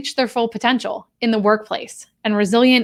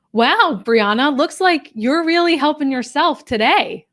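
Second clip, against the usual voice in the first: higher-pitched mock-impressed jab; teasing remark; 5 semitones higher than usual. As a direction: lightly tease with lilting pitch on the quote. Acting out CEO's teasing remark.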